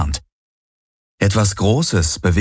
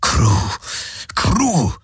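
urgent alien plea; 8 semitones higher than usual. A narrator's reading. Alien urging silence.

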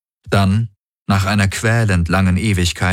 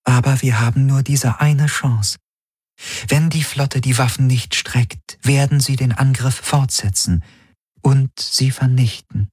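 higher-pitched, measured interpreter voice; translating Helix; 6 semitones higher than usual. A narrator's reading. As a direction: relay the ultimatum evenly, pitched up. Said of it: "übersetzte die Schattenhelix".

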